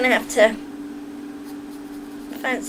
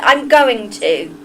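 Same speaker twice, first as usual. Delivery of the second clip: Southern accent. Shown as a demonstration. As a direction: declare it like an amateur Southern belle. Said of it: "Immerse yourself in just southern accent".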